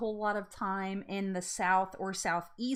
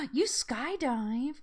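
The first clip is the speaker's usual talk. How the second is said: gasping disbelief; 5 semitones higher, much slower than usual. Real, not acted. Shocked by chat.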